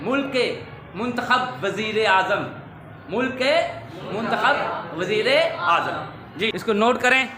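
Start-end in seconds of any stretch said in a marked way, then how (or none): 0.9-1.6 मुंतखब ending in "-khab"; short a after the kh in मुंतखब; correct pronunciation. Shown as a demonstration. Teacher showing pupils the fix, correct pronunciation. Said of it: "दुरुस्त". 4.1-5.0 मुंतखब ending in "-khab"; short a after the kh in मुंतखब; correct pronunciation. Shown as a demonstration. Teacher showing pupils the fix, correct pronunciation. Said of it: "दुरुस्त".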